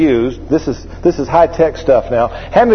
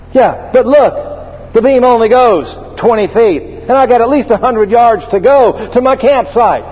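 indignant customer; 6 semitones higher than usual. Retold or imitated. Customer argues with clerk.

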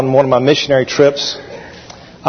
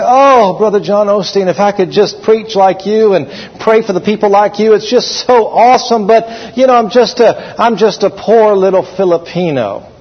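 humble admirer; 4 semitones higher than usual. Retold or imitated. Rudy humbly praising again.

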